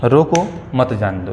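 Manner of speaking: रोको on a rise, मत जाने दो falling away; pause after रोको. Shown as a demonstration. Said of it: "इसमें मतलब ये है, रोकना है।".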